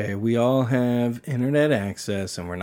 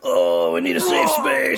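mocking voice; 9 semitones lower than usual. Mocking the PC kids.

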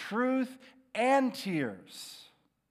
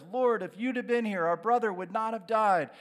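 higher, louder, rushed plea; grieving plea; 5 semitones higher, 5 dB louder, faster than usual. Retold or imitated. Mary to Jesus about her dead brother, rushed grieving plea. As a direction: pour the words out fast to Jesus. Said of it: "comes to him with the exact same words".

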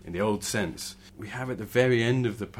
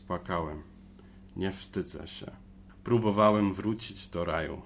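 reading in Polish. Acted. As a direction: read the Polish verse, line by line. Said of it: "Could I try to read it in Polish".

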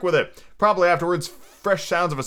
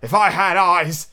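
slow, raised lament; crying out; 4 semitones higher, 5 dB louder, slower than usual. A narrator's reading. Blind Pew wishing he could see, crying out. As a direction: cry it out slowly, pitched up. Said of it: "he cried".

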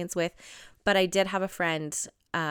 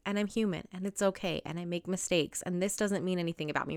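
gentle reassuring; 6 dB quieter than usual. Retold or imitated. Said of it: "changed it around a little bit to be like".

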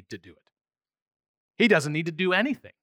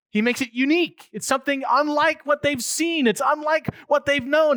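high, loud and ringing, driving each point home; fervent sermon climax; preaching at full force; 7 semitones higher, 7 dB louder than usual. Acted. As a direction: preach it out to the back row.

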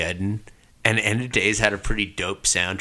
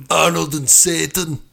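movie trailer voice; 6 semitones higher, 4 dB louder than usual. Pretend. Hyping a movie matchup.

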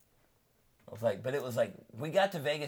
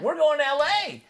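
high, louder outburst; retold exasperation; 14 semitones higher, 9 dB louder than usual. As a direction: blurt it out, fed up. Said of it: "I'm like".

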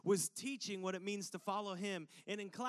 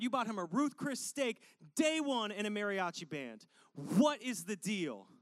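put-on angry older son; 3 semitones higher than usual. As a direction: rant at Dad like a resentful son. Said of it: "let me get at you with this".

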